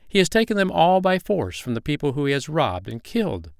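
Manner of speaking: a hint of a fairy, urging. Fairy continues speaking.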